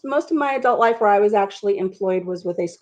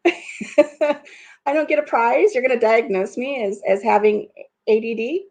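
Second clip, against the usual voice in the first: mock indignant surprise; 2 semitones higher than usual. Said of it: "And I'm like".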